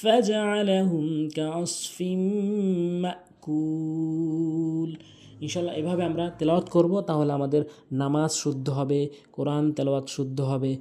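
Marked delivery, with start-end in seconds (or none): 0.0-5.0 slow melodic tilawat; Quran recitation. Shown as a demonstration. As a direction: chant each verse slowly and evenly. Recites Sura Fil. (ধীরে সুর করে কুরআন তেলাওয়াত)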